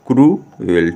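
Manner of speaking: क्रूएल drawn out in two parts, क्रू-एल; broken-down pronunciation. Shown as a demonstration. Teacher repeats the word for pupils, slow and split as क्रू-एल. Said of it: "क्या पढ़ते हैं?".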